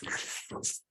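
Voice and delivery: breathy unvoiced reptile hiss; lizard hiss. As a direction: hiss at them like a cornered lizard. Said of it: "Think of, like, a lizard hiss".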